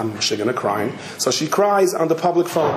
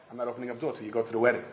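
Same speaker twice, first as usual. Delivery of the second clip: stubborn refusal; 2 semitones lower, 10 dB quieter, much faster than usual. Retold or imitated. Husband answers behind door.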